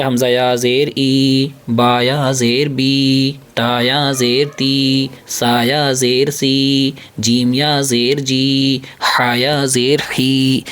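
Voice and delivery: ای، بی، تی، سی، جی، ہی each drawn out slowly; a slow, deliberate syllable-by-syllable drill; slow spelled syllables. Shown as a demonstration. Teacher drilling the children on syllables, slow and drawn out. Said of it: "کیسے پڑھیں گے؟".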